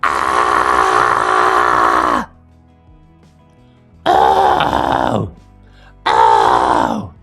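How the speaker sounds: low, loud crunchy scream; crunchy distorted scream. Shown as a demonstration. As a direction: hold a tight, crunchy scream. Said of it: "crunchy feeling".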